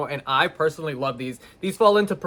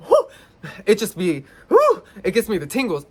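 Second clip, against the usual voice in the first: laughing off fear; 4 semitones higher than usual. Real, not acted. Laughing after the spider scare.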